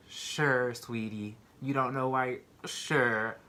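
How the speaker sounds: condescending, drily doubtful; mock disbelief. Jail staff doubting the new arrest, mildly condescending. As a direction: humor her without believing a word.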